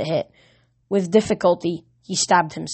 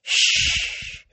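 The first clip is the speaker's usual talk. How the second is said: shushing. Acted. Comforting dying friend.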